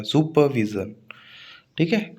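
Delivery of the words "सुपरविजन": सुपरविजन with the weight on वी; stress on वी. Shown as a demonstration. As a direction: lean on VEE in सुपरविजन. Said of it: "वी पर stress आएगा". (सुपरविजन के वी पर ज़ोर)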